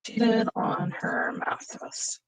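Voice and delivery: slow, hushed, half-whispered to yourself; soft, drawn-out murmur while writing; muttering while typing. Real, not acted. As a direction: sound out the words as you type them. Types out what she just decided.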